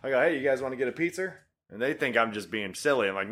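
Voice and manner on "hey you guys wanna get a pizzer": quick casual question, "pizza" as "pizzer"; Boston intrusive R. Retold or imitated. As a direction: toss it off briskly, ending "pizza" in R. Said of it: "To this day, when I talk about".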